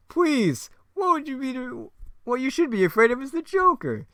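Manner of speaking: high, loud menacing clown; terrible Joker voice. Acted. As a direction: taunt like a cackling villain. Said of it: "my terrible Joker voice".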